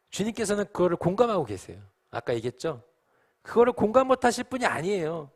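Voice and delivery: high, loud, urgent sermon voice; impassioned preaching. Real, not acted. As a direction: press the point home at full force. Preaches at full force.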